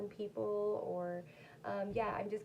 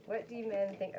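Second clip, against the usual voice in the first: breathy whispered question; whispering; 3 dB louder than usual. Real, not acted. Whispered reading of card question.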